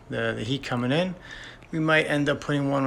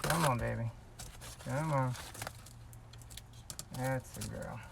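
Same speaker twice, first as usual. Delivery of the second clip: coaxing; 3 semitones lower, 18 dB quieter than usual. Real, not acted. Coaxing a stuck part into place.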